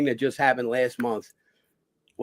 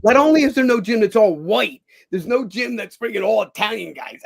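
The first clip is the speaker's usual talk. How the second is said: retold protest; 7 semitones higher, 6 dB louder than usual. His protest to Sly.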